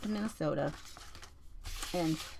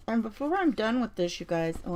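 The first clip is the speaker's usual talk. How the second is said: talking with food in mouth; words round a bite of food; mouth full; 4 semitones higher than usual. Real, not acted. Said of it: "sorry to be talking with something in my mouth".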